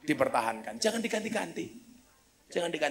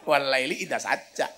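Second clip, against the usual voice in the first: put-on Javanese accent; 2 semitones lower than usual. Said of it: "baca Quran pakai logat Jawa".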